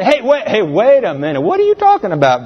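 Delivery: surprised Eve. Acted. Preacher voicing Eve.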